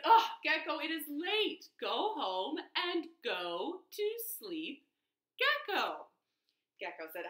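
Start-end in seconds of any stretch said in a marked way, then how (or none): 0.0-6.1 exasperated elephant. Acted.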